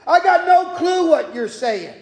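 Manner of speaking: mildly heated denial, pitch climbing; retold protest, insistent and rising; adamant denial. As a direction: deny it firmly, as if acting out an indignant man. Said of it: "to adamantly say".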